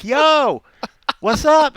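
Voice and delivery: high, loud call down a party line; big drawn-out mock shout; imitated yell. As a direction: holler a greeting to strangers on the line. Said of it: "you'd yell up".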